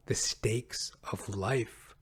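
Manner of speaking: slow dramatic whisper. Real, not acted. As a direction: breathe it as a grave secret. Dramatic hushed emphasis.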